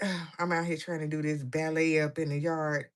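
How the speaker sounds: lightly voiced sulky grumble; mock whiny complaint. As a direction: complain like a bored kid forced to do ballet. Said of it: "She be like".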